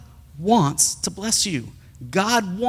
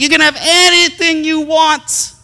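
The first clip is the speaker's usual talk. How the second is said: generous dad; 11 semitones higher, 6 dB louder than usual. Retold or imitated. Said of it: "I'm like".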